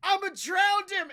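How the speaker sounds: high, full-volume yell; imitated scream. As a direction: scream it out like a wrestler's wild threat. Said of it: "and he just screams".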